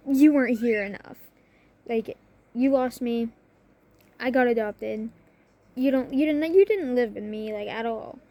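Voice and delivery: emphatic, indignant rebuttal; imagined scolding. Retold or imitated. Daughter in her head confronting biological mother, imagined scolding. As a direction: press the accusation without yelling. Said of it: "In my head, I'm screaming at this woman".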